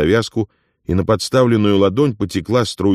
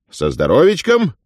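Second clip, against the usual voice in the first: higher, hearty toast; jovial toast; 10 semitones higher, 3 dB louder than usual. Acted. Afonya toasts Ilya's health, jovial and higher. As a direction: raise the glass cheerfully. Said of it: "произнёс тост благодушествующий".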